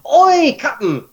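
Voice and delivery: high gruff pirate hail, drawn out; pirate call. Acted. Pirate hollering up to the captain again. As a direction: holler it like a deckhand.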